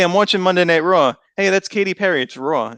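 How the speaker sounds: "Raw" said just as he says "Roar"; same-sounding Raw and Roar. Shown as a demonstration. Showing co-hosts that both words sound alike, "Raw" said like "Roar". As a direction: let "Raw" double for "Roar" in his accent. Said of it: "I pronounce them the exact same way".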